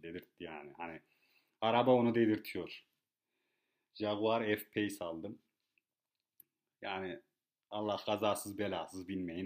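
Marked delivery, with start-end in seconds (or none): 3.9-5.4 slow savoring. Real, not acted. Repeats the car name slowly.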